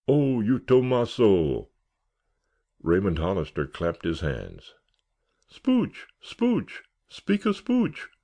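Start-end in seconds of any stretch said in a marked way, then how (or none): 0.1-1.7 higher, slow hearty call; megaphone call. A narrator's reading. Roy calling to Tom through the announcement megaphone, loud. 5.5-8.1 very high chanting demand; teasing call. A narrator's reading. Roy chanting at Tom to make a speech, high teasing call. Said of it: "called Roy".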